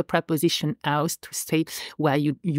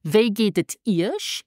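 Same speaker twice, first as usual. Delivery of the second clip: slow model phrase; 3 semitones higher, slower than usual. Shown as a demonstration. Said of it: "in a formal situation".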